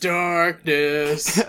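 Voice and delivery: dark, raspy bird voice; Raven voice. Acted. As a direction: croak it like a brooding raven. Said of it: "I get to do that Raven voice again".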